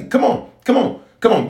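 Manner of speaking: high, eager call to the crowd; excited urging. Real, not acted. Preacher urging viewers to wave, excited high call. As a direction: pump up the online congregation.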